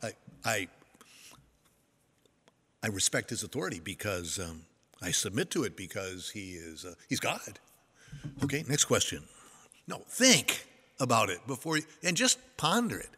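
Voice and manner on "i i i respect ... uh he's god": low, quiet, hurried mock answer; rushed offhand answer. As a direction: toss off a hesitant, unthinking reply. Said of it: "please don't just rush off to".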